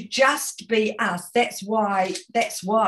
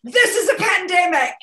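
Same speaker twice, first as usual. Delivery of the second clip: higher, laughing, happy cry; bright, laughing delivery; with joy; 8 semitones higher, 5 dB louder than usual. Shown as a demonstration. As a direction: cheer it with a laugh. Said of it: "do what I just did".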